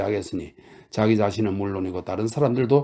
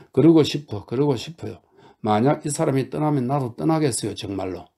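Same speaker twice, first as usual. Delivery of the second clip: fiery; 3 semitones higher than usual. Acted. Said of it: "활활 타오르는 눈빛으로".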